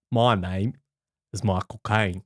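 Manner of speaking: measured, deep celebrity impression; Michael Caine. Co-host answering a request for his impression, low mock Michael Caine. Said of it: "do your impression of Michael Caine".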